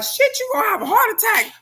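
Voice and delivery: retold high shout; mock yell. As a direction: holler it at yourself in alarm. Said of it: "I be like".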